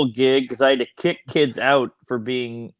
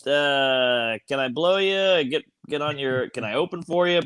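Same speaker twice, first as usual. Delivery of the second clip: put-on eager young comic; 3 semitones higher than usual. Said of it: "every Tom, Dick, and anal goes".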